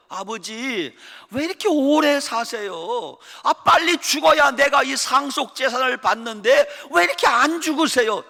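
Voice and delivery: whiny, impatient son nagging father; greedy son. Acted. Greedy son whining at his old father. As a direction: push it like a spoiled heir. Preacher acts greedy son's demand.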